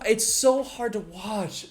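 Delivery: high, drawn-out exasperation; exasperated, stretched-out complaint; pained cringe. Real, not acted. Cringing at the played video.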